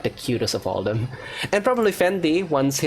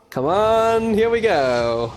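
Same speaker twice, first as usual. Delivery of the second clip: excited urging; 7 semitones higher, 4 dB louder, slower than usual. Real, not acted. Hoping for a good gacha roll.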